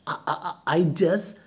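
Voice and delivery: mildly acted frightened stammer; frightened servant. Servant answering the angry guest, frightened. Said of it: "Luca is frightened".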